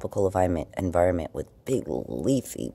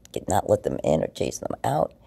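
ordinary talk, nothing marked

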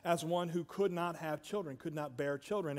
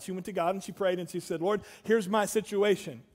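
louder, higher, driving preaching plea; desperate prayer; 5 semitones higher, 8 dB louder than usual. Acted. Preacher voicing Hannah's prayer to God, desperate and loud. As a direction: pour out the longing at full force.

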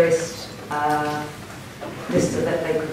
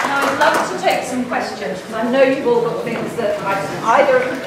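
walking away; 4 semitones higher than usual. Real, not acted. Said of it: "oh, I'm walking away from you".

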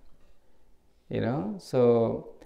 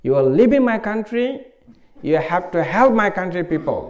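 lightly voiced teacher, louder and higher; teacher's urging; 6 semitones higher, 7 dB louder than usual. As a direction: urge it like the old teacher. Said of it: "and he said".

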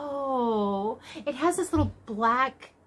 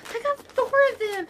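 much higher, delighted repeat; excited squeal; 8 semitones higher than usual. Real, not acted. Vlogger realising how much yarn she has, excited squeal. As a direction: pitch it up high with glee.

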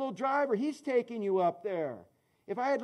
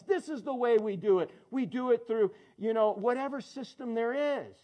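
defiant mock boast; 2 semitones higher than usual. Voicing worldly way, building chant.

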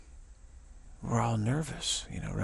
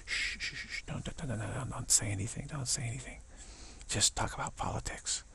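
softer, urgent shushing; hushed warning; 5 dB quieter than usual. Retold or imitated. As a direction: quietly hush a friend before he spills it. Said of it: "and I said".

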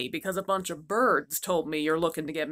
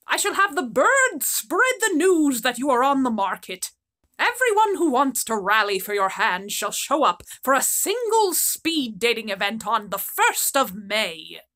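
unicorn; 2 semitones higher than usual. Acted. Unicorn announces plan.

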